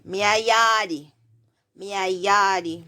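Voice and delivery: Jamaican Patois demonstration. Shown as a demonstration. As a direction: model the reply in Jamaican Patois. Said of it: "the reply would be".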